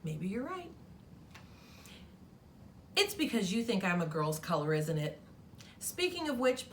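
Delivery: lightly voiced sassy pink crayon; a touch of a miffed crayon scolding the kid; mildly sassy crayon letter.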